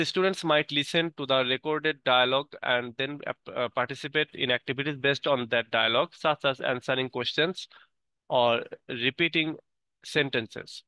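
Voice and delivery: slow, careful reading aloud word by word; teacher reading the English definition aloud slowly; slow textbook reading. Acted. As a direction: read it like dictation for the class. Reads English text slowly.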